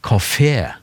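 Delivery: kafé with a long A first. Shown as a demonstration. Showing the wrong long vowel in kafé. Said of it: "vanskelig å si kafé med lang A først".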